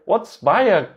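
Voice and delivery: loud question. Retold or imitated. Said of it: "In a loud voice".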